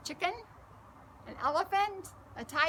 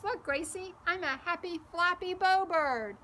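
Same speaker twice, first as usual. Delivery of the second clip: put-on excited child; 6 semitones higher, 4 dB louder than usual. Boy flapping arms happily.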